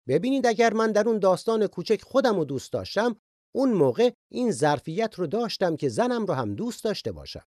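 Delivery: ordinary delivery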